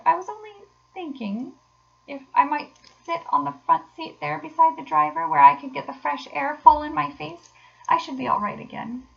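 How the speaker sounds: high, hesitant invalid voice; halting, high-pitched wheedling; feeble washerwoman. A narrator's reading. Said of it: "said Toad in a feeble voice".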